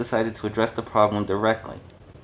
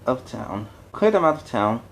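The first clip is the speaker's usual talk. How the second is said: pompous mayor; 3 dB louder than usual. Acted. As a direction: soothe them with empty promises. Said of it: "being a politician to the core".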